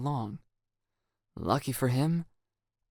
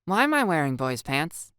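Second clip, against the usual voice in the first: playful confusion; 5 semitones higher, 6 dB louder than usual. Acted. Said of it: "hint of playful confusion".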